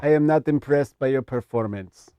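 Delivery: imitating a fighter's accented speech. Shown as a demonstration. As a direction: put on a stilted champion's impression. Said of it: "in your best G S P voice".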